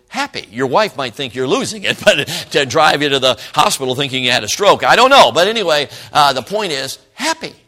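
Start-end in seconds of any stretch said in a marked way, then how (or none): 0.1-0.5 high, squeaky little "happy"; big-smile chirp, pitched way up; cheery good old boy. Shown as a demonstration. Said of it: "why don't you go". 7.1-7.5 high, squeaky little "happy"; big-smile chirp, pitched way up; the mechanic's catchphrase in a tiny high voice; cheery good old boy. Retold or imitated. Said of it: "He goes, "Happy".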